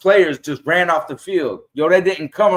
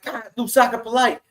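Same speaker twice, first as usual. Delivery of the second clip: excited recognition; 8 semitones higher, 4 dB quieter than usual. Retold or imitated. Fan recognizing player excitedly.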